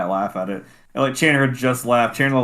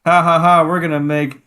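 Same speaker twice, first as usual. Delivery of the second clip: loud, mocking fake laughter; mocking laugh-talk; 4 semitones higher, 5 dB louder than usual. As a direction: sneer at the joke. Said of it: "they were like".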